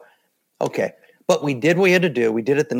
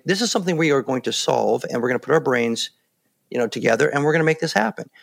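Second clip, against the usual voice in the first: even, steady leader's reassurance; calm reassurance. Shown as a demonstration. Leader reassuring a team in a crisis, calm and steady. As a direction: settle the group down with a level voice. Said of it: "Now, I'm saying that very calmly".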